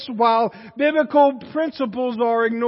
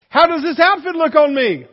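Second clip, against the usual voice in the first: mock fishing question; 4 semitones higher, 5 dB louder than usual. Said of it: "For example".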